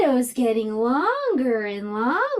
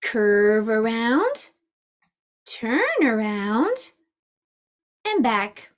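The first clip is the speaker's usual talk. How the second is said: slow guided instruction; slower than usual. Shown as a demonstration. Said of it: "Let's practice making".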